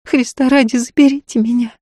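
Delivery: high, agitated pleading; hoarse with agitation. A narrator's reading. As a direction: beg them in an anxious, husky woman's voice. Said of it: "сиплым от волнения голосом попросила".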